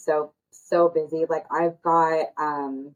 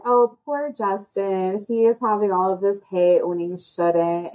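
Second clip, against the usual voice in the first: mock sympathy; slower than usual. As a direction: pretend to fret over him, laying it on slow. Mimicking people who excuse Justin.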